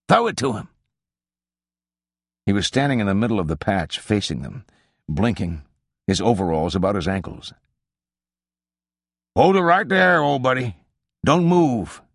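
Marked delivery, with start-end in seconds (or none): 0.1-0.7 urgent higher-pitched call. Acted. Hunter urging his partner to shine the light, calling out. 9.4-12.0 high, loud command to halt; calling out. A narrator's reading. Hunter ordering a half-dressed stranger to halt, calling out. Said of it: "The voice called out again".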